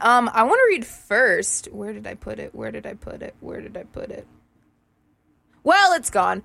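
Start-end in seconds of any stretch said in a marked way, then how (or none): 1.7-4.3 fading from a mutter to a whisper; muttering to self. Real, not acted. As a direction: mutter while hunting for it. Searching for lost text, muttering.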